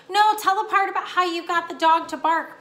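high, loud, eager plea; pleading. A narrator's reading. Young mouse begging for a favourite part, pleading. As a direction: plead loudly like an eager little listener. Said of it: "pleaded the third".

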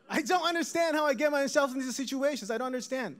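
high-pitched comic complaint; exasperated bewilderment. Acted. Comic bewilderment at recurring mishaps.

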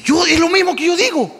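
slightly high, mildly insistent reply; lightly voiced sister-in-law agreeing; a touch of puzzled insistence; mild protest. Acting sister-in-law's first reply.

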